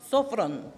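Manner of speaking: Sofron, accent on the opening syllable; stress on first O of Sofron. Shown as a demonstration. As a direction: lean on SO in Sofron, then fall. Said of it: "con acento en la primera O".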